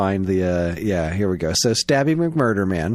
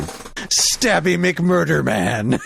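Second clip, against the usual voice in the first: slow, menacing name drop; angry cereal voice; 4 semitones higher, much slower than usual. Retold or imitated. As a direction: growl the name out slowly. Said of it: "super angry bur-, bowl of cereal".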